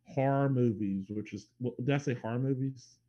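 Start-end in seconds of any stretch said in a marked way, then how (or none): 0.0-1.0 "horror" squashed to one syllable, "har"; "horror" run together as "har"; heavy accent. Real, not acted. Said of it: "that was a heavy accent". 2.1-3.0 "horror" squashed into a single "har"; "horror" slurred down to "har"; heavy accent. Real, not acted. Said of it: "like, all the R's in that statement".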